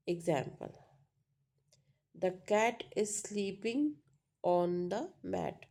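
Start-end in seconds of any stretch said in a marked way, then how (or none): 2.1-5.6 emphasis on "cat", "sleeping" and "mat"; stress on content words. Shown as a demonstration. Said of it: "emphasis on cat, sleeping".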